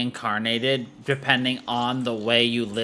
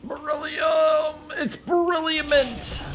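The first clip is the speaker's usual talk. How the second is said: high excited shout; 14 semitones higher than usual. Real, not acted. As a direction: yell out the find, thrilled. Excited at finding mineral.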